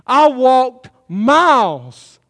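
hammed-up angry complaint with a laugh at the start; mock outrage. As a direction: play the fed-up soldier, half laughing. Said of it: "I'd be mad".

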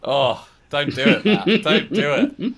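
high-pitched playful protest; mock pleading. Begging colleague not to start a holy war, high mock plea.

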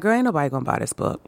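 a hint of a dismissive inner critic, quick at first; lightly voiced doubting inner voice brushing her off; imposter syndrome voice. Her imposter syndrome telling her nobody buys the book, mildly dismissive. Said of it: "my imposter syndrome was like".

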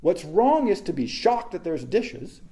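ordinary delivery

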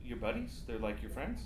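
hurt. Acted. Hurt caller learns of friends.

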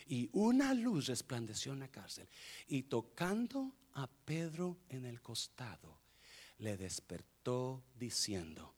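slow, measured Bible reading; solemn, spaced-out phrases, voice sinking toward the close; scripture reading. Acted. Reads scripture aloud.

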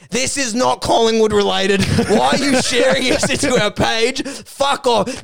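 mock outraged complaint, pitch climbing; indignant commenter. Group member objecting to shared memes, mock indignant. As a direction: imitate an irked group member. Mimicking irate replies in groups.

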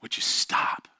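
retold crying mother, understated; hushed, mildly tearful imitation of mom; tearful plea. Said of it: "crying and being like".

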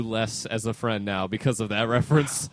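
soft unvoiced whisper. Real, not acted. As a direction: whisper the jab aside. Whispered jab.

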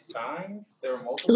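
startled whispered question; surprised. Real, not acted. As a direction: blurt it out in disbelief. Surprised to learn about signs.

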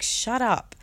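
mildly defiant self-praise; defiant self-affirmation. Retold or imitated. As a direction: cut off the doubt, voice lifted. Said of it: "I'd be like".

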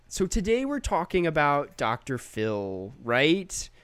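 slow, lightly voiced YouTuber intro with a rising "right?"; a light take on a YouTuber opening a video, slowly; Big Joel impression. Imitating a YouTuber for a cohost, slow and lightly voiced. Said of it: "that's how he talks".

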